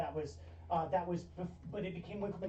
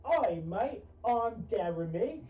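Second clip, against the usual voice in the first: mock British accent; 3 semitones higher, slower than usual. Jeremy tries out a new accent for stream, laughing mock British. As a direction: ham up a cheeky British bloke. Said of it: "maybe I'll be like".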